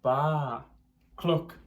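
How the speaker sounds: loud moo, baa and cluck; loud animal noises. A narrator's reading. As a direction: animals charging in loudly. Animals rushing the farmer.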